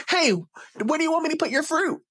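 giggle, then high silly voice; put-on clueless cheer; oblivious creep. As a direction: chirp the question as if nothing was said. Creep ignores her long plea.

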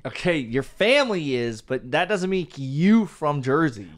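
lightly mocking East Coast accent. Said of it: "you're talking like an East Coast".

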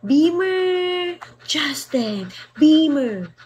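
calling out "Beamer" and "Justin" the Ilonggo way; Ilonggo accent. Retold or imitated. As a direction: shout a singer's name in an Ilonggo accent. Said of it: "It's Ilonggo accent". (pagtawag sa isang mang-aawit sa puntong Ilonggo)

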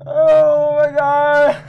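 high, loud and drawn out; breathless oh my god. Real, not acted. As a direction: gasp it out slowly. After escaping scare.

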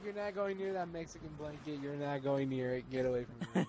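firm pet scolding; scolding the dog. Real, not acted. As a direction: warn the dog off.

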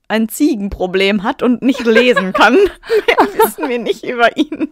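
laughing through the words, loud and high; real laughter. Real, not acted. Reader cracking up over the goat problem, laughing loudly. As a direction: break up laughing while talking. Amused aside during the reading.

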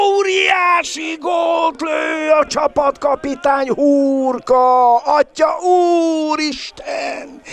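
very high, slow, shouted goal call; excited hungarian sports commentary. Real, not acted. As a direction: scream the goal with full joy. Captain scores, commentator erupts. (izgatott magyar sportkommentár)

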